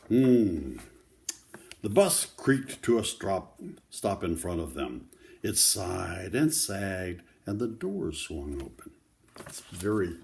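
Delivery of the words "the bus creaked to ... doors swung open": put-on steady read-aloud voice for children; story narration. A narrator's reading. Grandparent reading a picture book to children, gentle read-aloud. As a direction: read the story to the kids, clearly.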